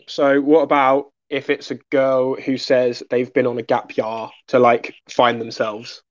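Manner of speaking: put-on slow posh young London drawl; drawn-out Chelsea accent. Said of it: "added the Chelsea accent there".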